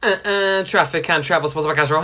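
loud announcer jingle. Acted. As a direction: boom it like a radio ident.

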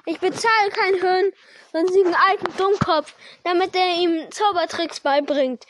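angry shouting; shouting uncle. Acted. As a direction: yell it in outrage. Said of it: "schrie Onkel Vernon".

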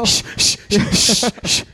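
whispered shh; shushing. Retold or imitated. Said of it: "Being like".

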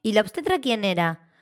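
mocking question. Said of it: "mucha gente es como".

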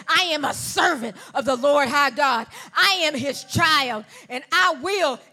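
loud, rising, chanted preacher cadence; roaring Sunday sermon; full-force preaching. Acted. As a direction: build the crowd to a climax.

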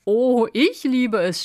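high, loud burst of delight; enthusiastic exclamation. A narrator's reading. Fox boasting to the snail, excited cry. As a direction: exclaim it with relish. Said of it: "rief der Fuchs da".

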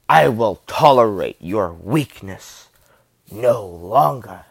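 lightly voiced menacing villain, slow; slow, weighty delivery of a film villain's line; Vader. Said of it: "I love that line too".

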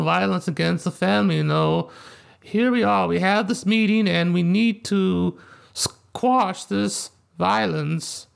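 lightly voiced Godfather don, slow in places; a hint of the calm mob boss at a meeting; Marlon Brando impression. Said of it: "it's Brando".

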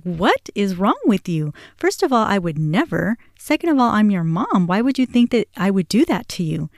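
retold motherly outrage, pitch jumping on key phrases; indignant retort. Mother telling son she would never do that, retold indignantly. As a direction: imitate yourself indignantly telling off your child.

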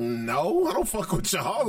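high, blunt brush-off; dismissive. Retold or imitated. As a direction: shut the invitation down flatly. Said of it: "And I'm like".

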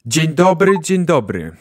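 booming speaker greeting; loud, echoing public address; through a loudspeaker. Acted. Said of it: "głos wydobywa się z bardzo dużego jakiegoś, e, głośnika".

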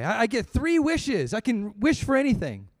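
lightly voiced giddy woodcutter; excited woodcutter. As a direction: bubble over at the good news. Woodcutter overjoyed at wishes.

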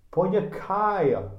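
a hint of a Russian accent; clumsy mock Russian for the launch cry. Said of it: "estoy imitando el acento en ruso".

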